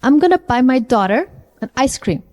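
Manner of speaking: connected speech with "daughter" and "ice" stressed. Shown as a demonstration. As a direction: punch "daughter" and "ice", leave "cream" unemphasized. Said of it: "Tell me which words I am stressing".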